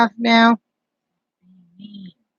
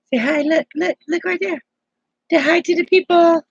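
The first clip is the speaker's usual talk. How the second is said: higher sing-song coaxing; 6 semitones higher than usual. Real, not acted. Grandma coaxing the grandbaby to wave at viewers, higher sing-song.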